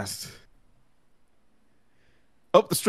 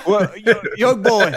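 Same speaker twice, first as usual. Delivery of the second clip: put-on Cockney accent; 5 semitones higher than usual. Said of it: "doing a little Cockney accent".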